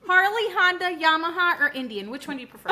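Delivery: giggling through the words; laughing question. Real, not acted. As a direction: laugh while asking. Joking question to future self.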